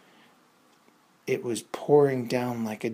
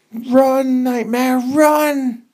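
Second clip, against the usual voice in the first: high, loud yell to the horse; 13 semitones higher, 11 dB louder, much slower than usual. Acted. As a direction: scream at him to run. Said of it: "Lumpy yelled".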